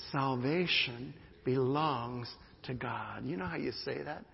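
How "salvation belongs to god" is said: said slowly with weight on Salvation; slow emphatic declaration. Shown as a demonstration. Pastor leading church in a slow call-and-response. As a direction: lead the congregation in Salvation belongs to God. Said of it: "Would you say that with me?".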